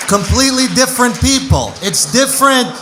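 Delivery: put-on loud, heavy Russian accent rant; mock Russian rant. Comic defending his country in a loud Russian accent. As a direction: bark it like an angry Russian uncle.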